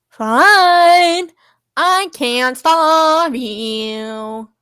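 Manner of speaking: very slow, stretched-out fake accent; exaggerated pseudo-Italian drawl; hammed-up character accent. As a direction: drag out each word in a silly accent. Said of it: "Sunny is reading your character like this".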